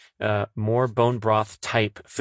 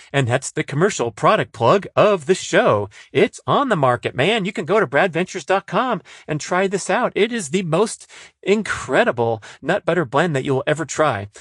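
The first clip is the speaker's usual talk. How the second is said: high, emphatic commercial pitch; hammed-up sales plug; 7 semitones higher, 3 dB louder than usual. Host plugging his nut butter to listeners, hammed-up sales pitch. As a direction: sell it like an over-the-top advert.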